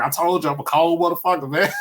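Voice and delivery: high, fast, cocky imitation; mock Chappelle. Fan quoting a Chappelle punchline, fast high cocky voice. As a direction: fire it off quick and high, cocky. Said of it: "He's like".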